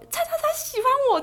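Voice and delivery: put-on high, loud taunting boy voice; imitating the boy taunting the class; mocking yell. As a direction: shout it out like a schoolyard tease. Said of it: "他刚刚直接在班上大叫说".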